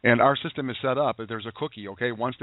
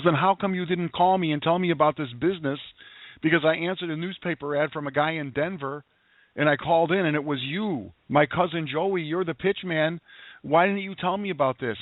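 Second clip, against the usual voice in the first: lightly voiced tough cousin, higher pitched; a hint of a brassy, teasing cousin, pitched up; tough Polish cousin; 4 semitones higher than usual. Cousin teasing him on the phone, lightly voiced tough-woman tone. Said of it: "She goes".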